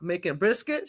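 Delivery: lightly put-on Southern reply; pretend American accent. Mama telling daughter what's cooking, pretend southern accent. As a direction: answer with a mock American South twang. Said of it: "pretend American accent going".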